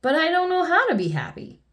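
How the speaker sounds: high-pitched, mildly tearful protest; sniffling complaint. A narrator's reading. King answering Miss Sunshine, mildly tearful. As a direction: plead in a lightly acted whimper. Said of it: "sniffed the king".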